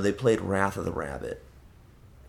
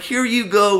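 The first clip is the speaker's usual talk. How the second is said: sweet handover; 11 semitones higher, 7 dB louder than usual. Retold or imitated. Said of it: "I was like".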